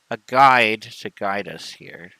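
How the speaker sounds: talking around a pen; words slurred by pen in mouth; pen in teeth. Real, not acted. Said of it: "Sorry, I put the pen in my mouth".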